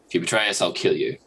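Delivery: drudgy threat. Shown as a demonstration. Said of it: "in a very kind of drudgy way".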